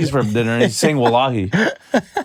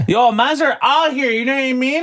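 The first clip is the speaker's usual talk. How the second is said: much higher, laughing Toronto slang; Toronto roadman slang voice; 10 semitones higher than usual. Retold or imitated. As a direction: ham up a grade-nine kid talking Toronto street slang. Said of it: "that's just fucking Connor in grade nine".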